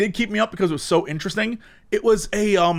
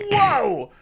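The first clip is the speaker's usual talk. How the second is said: higher, drawn-out "whoa"; floored by the philosophy; mock awe; 10 semitones higher than usual. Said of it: "I was like".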